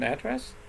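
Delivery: "address" with a full A, stressed AD-dress; noun stress. Shown as a demonstration. Teacher wondering about the noun, "address" stressed on the first syllable. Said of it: "If a noun".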